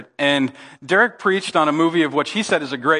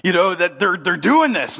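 higher-pitched mock exasperation; lightly acted frustration, in disbelief; frustrated devil; 4 semitones higher than usual. Devil fuming about Sven and Oli, mildly frustrated. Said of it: "just frustrated".

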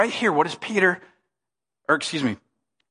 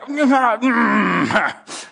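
hesitant groan. Acted. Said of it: "how many are like".

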